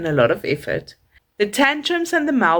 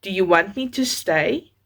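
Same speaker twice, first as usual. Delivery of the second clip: calm but firm. Shown as a demonstration. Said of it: "Use a calm but a firm voice".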